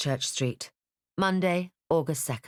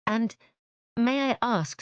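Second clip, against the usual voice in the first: lightly voiced Elizabeth; 9 semitones higher, slower than usual. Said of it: "said Elizabeth".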